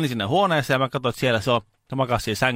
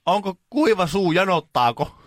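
high, slow question to a patient; polite careful inquiry; 8 semitones higher, slower than usual. Retold or imitated. Carer asking if the old lady is thirsty, slow and high. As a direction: ask solicitously, pitched up and drawn out. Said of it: "Sit mä kysyin".

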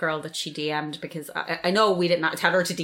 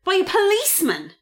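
outraged; 12 semitones higher than usual. Real, not acted. Outraged emphasis.

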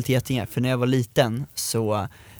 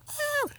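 mock scream; 12 dB quieter than usual. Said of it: "så börjar jag råskrika".

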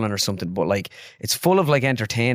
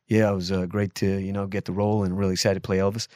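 lightly imitated everyday American accent; casual American actor talking about a role; Austin Butler before Elvis; 3 semitones lower than usual. Actor interviewed before playing Elvis, light American accent. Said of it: "his accent before the film was like".

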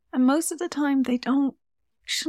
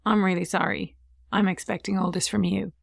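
sincere apology; 2 semitones lower than usual. Shown as a demonstration. Mother apologising to her child for losing her temper, sincere and gentle. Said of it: "You need to say".

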